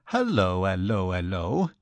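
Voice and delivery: lightly voiced Archie-like chirp, dipping low then lifting at the end; a cheery triple hello, lilting up at the close; lightly voiced greeting. A narrator's reading. Archie greets Mister Connolly, lightly voiced breezy greeting.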